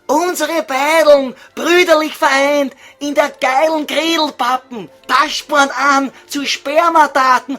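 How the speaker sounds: half-chant it as Gretel; a touch of Gretel voice. Acted. Gretel chanting about the act.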